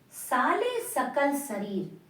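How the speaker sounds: verse recital. Shown as a demonstration. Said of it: "सकल माने पूरे".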